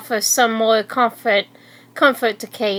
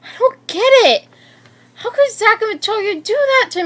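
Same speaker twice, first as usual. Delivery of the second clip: talking to herself; 10 semitones higher than usual. Acted. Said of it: "talking to herself".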